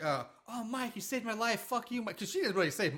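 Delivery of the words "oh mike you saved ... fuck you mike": mock gushing. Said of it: "Debbie's like".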